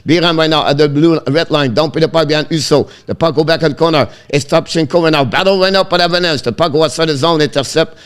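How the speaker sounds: rapid, unbroken running commentary; live hockey play-by-play. Real, not acted. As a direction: follow the puck breathlessly from pass to pass.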